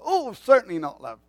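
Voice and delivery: standing to attention. Retold or imitated. Husband answering his wife, mock soldier at attention. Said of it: "I go to attention".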